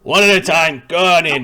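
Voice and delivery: loud, high guard orders; barking guard. Acted. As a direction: bark orders at the line. Guard ordering them inside.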